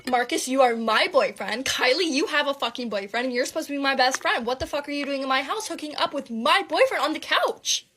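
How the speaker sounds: heated, emphatic telling-off; acted indignant rant; angry confrontation. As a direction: lay into both of them, building to outrage. Acted confrontation of boyfriend and friend.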